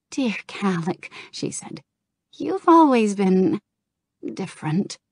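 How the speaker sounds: a hint of a gentle young woman, fond; lightly voiced Kirigosa. Kirigosa teasing Kalik fondly, lightly voiced female role.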